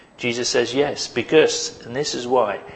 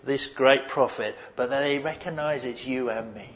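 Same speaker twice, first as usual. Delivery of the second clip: imagined Jesus; 3 semitones higher than usual. Retold or imitated. Preacher voicing Jesus talking aside to his Father. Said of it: "It's like Jesus is saying".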